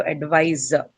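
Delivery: "advisor" with the weight on VI; stress on second syllable. Shown as a demonstration. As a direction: stress the middle of "advisor": ad-VI-sor. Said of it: "a stress on the second syllable".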